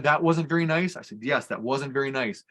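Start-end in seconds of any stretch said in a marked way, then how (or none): 0.0-0.9 mildly voiced child's complaint; a hint of a wronged little girl; upset little girl. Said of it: "When she said". 1.2-2.4 put-on slow, calm agreement with a child; gently validate an upset child, retold; unhurried, understated reassurance; affirming reply. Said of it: "affirm everything she said".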